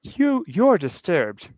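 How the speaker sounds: slow deep put-on female voice. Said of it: "I gave her a deep voice".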